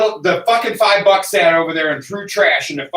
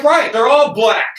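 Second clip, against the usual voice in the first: retold sarcastic rant; 3 semitones higher than usual. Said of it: "I was like".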